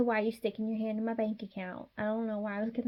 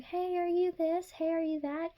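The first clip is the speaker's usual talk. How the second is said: prying questions; 7 semitones higher than usual. Retold or imitated. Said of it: "When someone asks you".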